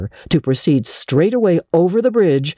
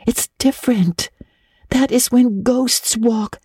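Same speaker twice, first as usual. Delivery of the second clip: put-on eerie girl voice; 11 semitones higher than usual. A narrator's reading. Anne speaks of ghosts.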